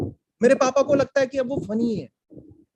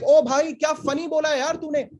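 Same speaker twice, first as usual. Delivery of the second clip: higher, quick gushing praise; mock impressed; 6 semitones higher, much faster than usual. Comic acting out praise of a friend's joke, mock impressed. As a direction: act out over-eager praise for a pal.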